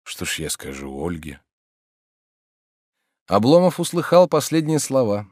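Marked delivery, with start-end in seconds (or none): 0.0-1.4 softer and lower, dazed; barely voiced dismay; stunned hush. A narrator's reading. Stolz stunned, still hushed. (тихо, ошеломлённо)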